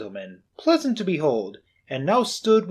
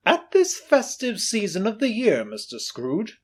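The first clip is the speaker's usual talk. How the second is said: hearty gentleman; 8 semitones higher than usual. Acted. Portly gentleman greeting Scrooge, booming. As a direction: announce yourself pleasantly.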